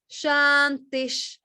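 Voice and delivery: "Shantish" slowed down, with the final "sh" held and hissed; Shiva ending. Shown as a demonstration. Teacher demonstrating the sandhi sound to the student, slowly. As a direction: land "Shantish" on a strong, lingering "sh". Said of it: "You hear that?".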